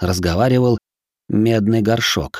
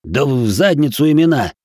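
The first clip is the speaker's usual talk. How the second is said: barked order; 4 semitones higher than usual. Acted. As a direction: snap it harshly. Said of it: "рявкнул я".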